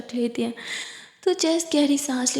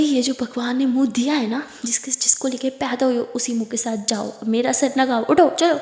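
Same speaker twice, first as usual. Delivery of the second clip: mildly angry. Acted. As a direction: lose patience, snap up "उठो, चलो". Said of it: "थोड़ा गुस्सा करने लगती है". (हल्के गुस्से में)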